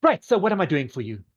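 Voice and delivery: brisk fashion diva, high and loud; theatrical boutique owner getting to business; Fabulous. Acted. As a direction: take charge like a grand designer. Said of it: "steps away again and goes".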